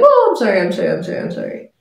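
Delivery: high gasped start, tumbling into softness; flustered apology. Retold or imitated. House help apologizing for the burn, imitated flustered voice. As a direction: imitate frantic, fading apologies.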